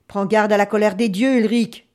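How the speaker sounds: loud, insistent caution; solemn loud warning. Acted. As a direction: warn him with force, on a steady pitch. Devin warns the chief of gods.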